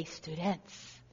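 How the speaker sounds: low, soft "Students"; hushed call to students. Retold or imitated. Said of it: "Then he'd say".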